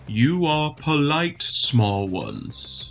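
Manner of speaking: slow, deliberate giant. Acted. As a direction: let a patient giant judge them slowly. Giant speaks to the party.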